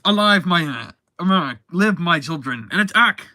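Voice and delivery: hammed-up evil summons; villain's command. Villain commanding balloon creations.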